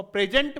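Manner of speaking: प्रेजेंट said "PRE-jent", open e first; adjective pronunciation. Shown as a demonstration. Teacher showing students the adjective's sound, प्रेजेंट as "PRE-jent". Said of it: "जो adjective है".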